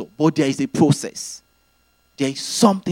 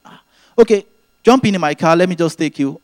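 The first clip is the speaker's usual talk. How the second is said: cheerful friend; 4 semitones higher, 4 dB louder, faster than usual. Retold or imitated. Mike's offer voiced in story.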